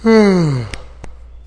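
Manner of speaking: mock yawn on a falling sigh; demonstrated yawn. Shown as a demonstration. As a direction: let out a pretend yawn. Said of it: "that when you yawn".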